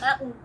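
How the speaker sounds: MOUNTAIN with a swallowed T; American dropped T. Shown as a demonstration. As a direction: drop the T in MOUNTAIN, straight to N. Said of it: "the same with mountain".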